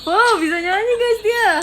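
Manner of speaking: high, loud laughing amazement; amazed squeal. Real, not acted. Streamer telling viewers her pet sings, high and delighted.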